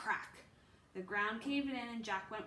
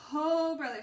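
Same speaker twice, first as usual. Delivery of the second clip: loud, higher-pitched exclamation; loud dismay; 4 semitones higher, 12 dB louder than usual. A narrator's reading. Jack learns how fierce the beast is, loud dismay. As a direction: burst out in dismay. Dismay after reading about the tiger.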